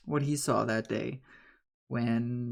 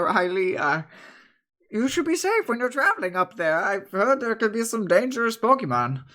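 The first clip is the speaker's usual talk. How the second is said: lightly voiced kindly old woman, higher; 9 semitones higher, 4 dB louder than usual. Bread woman praising Riley's friends, lightly voiced. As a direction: speak gently like a grandmother. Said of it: "the red woman goes back".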